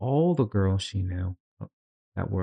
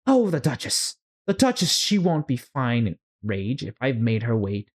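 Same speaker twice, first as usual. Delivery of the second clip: higher, anxious rabbit voice; fretful White Rabbit; 3 semitones higher than usual. Acted. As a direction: fuss and panic about being late.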